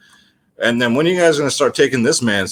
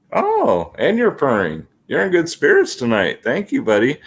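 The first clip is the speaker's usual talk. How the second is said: pet talk; 3 semitones higher than usual. Real, not acted. Greeting the purring cat.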